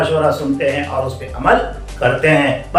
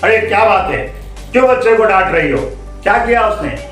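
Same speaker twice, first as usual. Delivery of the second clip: higher, quick questioning; concerned questioning; 7 semitones higher, faster than usual. Acted. Leader asking mother why she scolds, concerned questioning. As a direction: step in and ask what happened.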